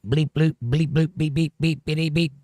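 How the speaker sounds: spoken bleep-bloop machine noises; playful robot bleeps. Pretend. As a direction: beep and bloop like a little robot. Greets a chatter in beeps.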